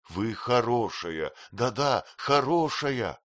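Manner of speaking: slow, gentle reassurance; consoling. Acted. Young man consoling his crying fiancée, slow and gentle. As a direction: soothe her slowly, word by word. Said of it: "утешал её Хэм".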